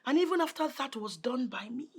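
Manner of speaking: soft, cold telling-off; cold reproach. Acted. Stepmother to Abigail, soft cold reproach. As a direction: list her failings quietly.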